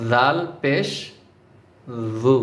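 জাল পেশ জু, tongue on the teeth first, then rounded lips for জু; touch the teeth, then round the lips for জু; careful pronunciation. Shown as a demonstration. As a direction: lesson demo of জাল পেশ জু. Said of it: "এভাবে".

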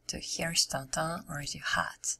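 hoarse, fading voice; raspy, worn-out voice; losing voice. Real, not acted. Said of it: "I'm losing my voice".

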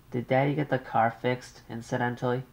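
an anxious mother on the line. Acted.

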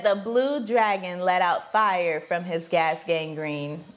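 slow, low-pitched recital; deadpan challenge read. Real, not acted. Giving the partner a phrase to guess, deadpan.

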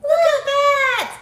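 loud, high excited squeal; thrilled disbelief. Real, not acted. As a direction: cry out in thrilled surprise at the milestone. Stream reaches a million likes.

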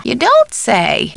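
high, stretched "don't"; surprised take. Acted. Housekeeper hearing news from caller, surprised. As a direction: swoop up on "don't" and draw it out. Alternate takes of stock line.

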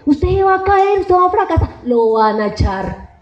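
slow, belittling inner voice that rises; inner critic voice. Retold or imitated. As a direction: taunt yourself like a cruel inner voice. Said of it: "hay una vocecita que me dice". (vocecita interior despectiva y lenta)

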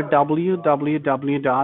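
slow, spelled-out dictation; dictating. Real, not acted. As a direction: spell it out letter by letter, slowly. Dictating a web address.

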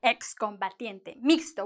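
"excombatiente, mixto" with the X sounded as KS; quiet model of "excombatiente, mixto" with KS. Shown as a demonstration. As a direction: pronounce both X's as K plus S. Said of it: "gonna be pronounced like x".

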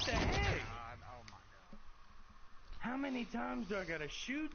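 high squeaky voice. Real, not acted. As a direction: squeak it out in frustration. Frustrated at a tough enemy.

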